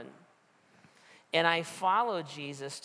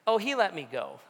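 higher and louder, delighted reveal; excited punchline; 5 semitones higher, 6 dB louder than usual. Retold or imitated. Pastor voicing his friend, gleefully loud. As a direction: toss it out bright and high with glee.

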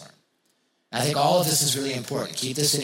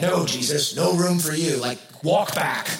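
mock refusal; 3 semitones higher than usual. Disciples telling Jesus there is no room, mock refusal. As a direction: playfully send him packing.

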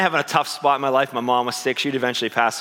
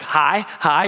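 friendly, louder, higher-pitched hi; smiling greeting; 5 semitones higher, 4 dB louder than usual. Retold or imitated. Jogger saying hi to people on the sidewalk, smiling greeting. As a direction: greet passersby with a smile. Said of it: "always smiling and saying hi to people".

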